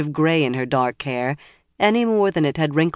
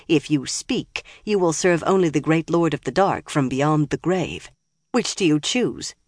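menacing villain. Acted. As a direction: threaten her calmly. Liandrin threatens old woman.

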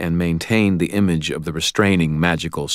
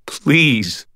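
high-pitched, louder, imploring cry; desperate plea; 10 semitones higher, 5 dB louder than usual. A narrator's reading. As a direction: implore them to help. Repeated desperate plea to the angel.

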